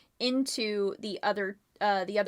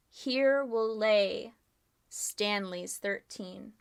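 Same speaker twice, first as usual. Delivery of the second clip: ominous reading; slower than usual. A narrator's reading. Ominous writing read off the ceiling.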